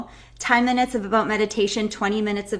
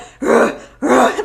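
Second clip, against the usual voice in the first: mock cry; 3 semitones higher, 9 dB louder than usual. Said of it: "You're not like".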